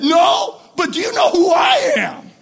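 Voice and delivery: high, loud comeback falling on "I am"; one-upping retort. Acted. Other movie guy answering back, emphatic one-upmanship. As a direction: top the other big shot emphatically. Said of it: "the other guy said".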